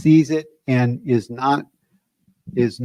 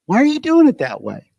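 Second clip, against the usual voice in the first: irritated boss; 8 semitones higher, faster than usual. Retold or imitated. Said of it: "this feeling would come in of".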